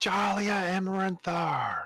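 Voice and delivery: high, screechy, screeching cat voice. A cat character calls out a name in a screeching cat voice. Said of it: "a cat voice screeches out".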